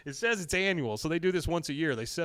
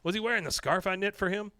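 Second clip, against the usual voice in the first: high, loud gush of a starstruck fan; a fan suddenly starstruck by his hero; 8 semitones higher, 4 dB louder than usual. Retold or imitated. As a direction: squeal it like meeting your idol. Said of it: "Con is starstruck all of a sudden".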